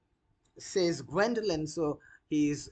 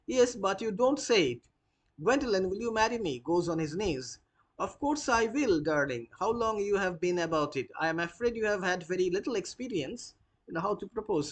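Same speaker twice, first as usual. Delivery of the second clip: lovers' dialogue, lightly acted; 3 semitones higher than usual. Teacher reading Jack's proposal and Gwendolen's reply, teasing.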